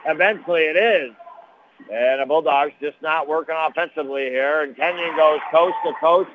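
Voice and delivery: brisk running game commentary; play-by-play call. Real, not acted. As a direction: call the action as it happens. Live basketball play-by-play call.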